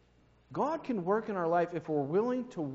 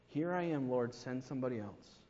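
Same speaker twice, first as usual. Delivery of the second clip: softer, lower echo of the prayer; quiet mocking repeat; 3 semitones lower, 6 dB quieter than usual. Shown as a demonstration. Preacher repeats the lazy prayer softly to the church. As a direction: mutter it back with irony.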